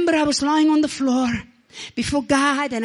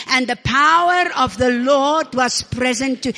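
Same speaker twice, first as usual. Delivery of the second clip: repeat after me; 4 dB louder than usual. Shown as a demonstration.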